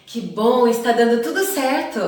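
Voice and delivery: a lightly played enthusiastic cheer. Shown as a demonstration. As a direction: sound pleased that things work out. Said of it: "Ele pode indicar entusiasmo".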